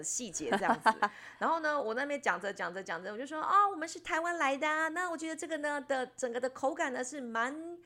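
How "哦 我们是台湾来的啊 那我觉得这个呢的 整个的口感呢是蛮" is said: mock earnest reviewer. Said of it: "煞有其事的在那边讲".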